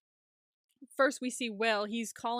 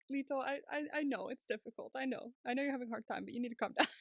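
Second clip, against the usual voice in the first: soothing; 7 dB quieter, faster than usual. Retold or imitated. Acting boyfriend soothing him.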